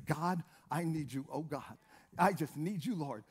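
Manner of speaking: low, hushed plea to God; soft prayer. Shown as a demonstration. Preacher showing how to pray soft to God, hushed and low. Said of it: "Sometimes you just gotta pray soft".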